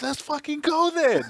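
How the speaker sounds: high, slow, drawn-out dare. Retold or imitated. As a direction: stretch it out daring him. Retold challenge.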